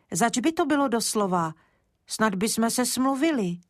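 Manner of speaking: put-on a small boy trying to strike a deal; earnest little boy. Kája bargains with the dentist.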